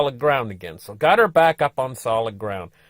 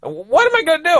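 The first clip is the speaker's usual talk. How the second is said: high, louder panicky question; mock panic, pitched up; panicked self; 6 dB louder than usual. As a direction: fret out loud. Narrator panicking at rescue.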